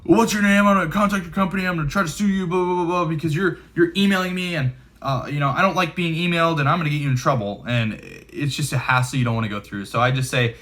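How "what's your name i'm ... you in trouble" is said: high, whiny mock outrage at a spammer; salty complaining agent. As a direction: mimic an irate person threatening to sue, pitched high. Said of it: "some people get real salty and they're like".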